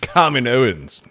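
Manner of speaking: Kaminoans drawn out slowly, opening on "KAH"; deliberate pronunciation. Shown as a demonstration. Correcting co-host on the name, Kaminoans stretched out as "KAH-mi-no-ans". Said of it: "however you wanna pronounce it".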